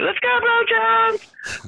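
drawn-out high chant of a team cheer; slow, stretched cheer like a dugout rally; imitating softball players chanting their cheer. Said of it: "the softball team would refer to themselves also as Brojans, like".

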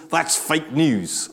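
slow, half-hearted American accent on That's fake news; a weak stab at an American accent, drawn out; attempted American accent. Preacher mock-quotes American politics in a poor American accent. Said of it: "I can't do an American accent".

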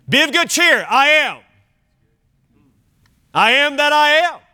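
high, bright "be of good cheer"; excited Jesus voice. Retold or imitated. Preacher voicing Jesus calling to disciples, joyful high proclaiming. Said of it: "That's literally what he said".

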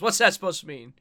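loud, indignant teenage girl impression. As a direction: play a flustered teen girl, loudly. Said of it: "Kevin Conroy doing a teenage girl".

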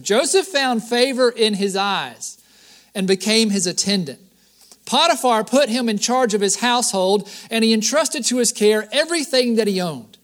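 measured, projected Bible reading; scripture reading. Acted. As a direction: read the verse out to the congregation. Reads scripture aloud.

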